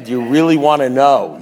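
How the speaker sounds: mock the big reveal with punch; mocking repeat. Man mimicking his sponsor's crap, mocking. Mocks the sponsor's question afterwards.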